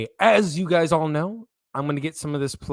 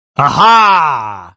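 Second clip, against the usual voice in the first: very loud, long-held, stretched-out aha; 14 dB louder than usual. Opening a podcast with a Joker impression. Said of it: "That's my Joker impression".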